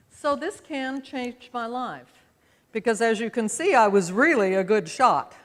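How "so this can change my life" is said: whisper. Real, not acted. Dramatic whispered aside.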